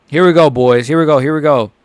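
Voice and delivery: loud excited chant; hyped up. Real, not acted. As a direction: pump up the crowd. Fight about to start.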